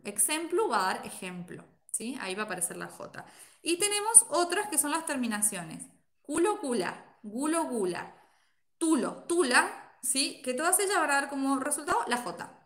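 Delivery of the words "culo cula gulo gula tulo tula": culo cula gulo gula tulo tula read one by one, clearly; endings read out. Shown as a demonstration. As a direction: list the endings for the class. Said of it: "listing word endings".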